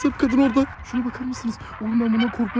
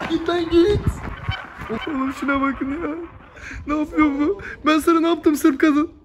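scared pleading; 6 semitones higher, slower than usual. Acted. Ghost follows, he begs.

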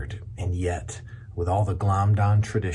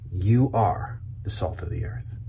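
1 whispered. Shown as a demonstration.

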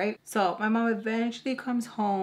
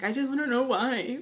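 imitated tearful whine, higher; crying; 5 semitones higher, 4 dB louder than usual. Daughter scared for her relationship, tearful. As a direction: whine it as if in tears. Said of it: "Like, crying 'cause I'm".

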